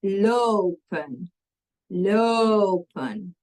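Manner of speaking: LOPEN with a long, stretched O in the first syllable; drawn-out long o. Shown as a demonstration. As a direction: sound out "lopen" slowly for a learner, holding the O. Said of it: "listen to the word for the plural".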